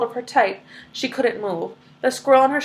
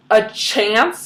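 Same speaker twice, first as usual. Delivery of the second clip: mild yell; 4 dB louder than usual. Acted. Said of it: "yelled Missus Salt".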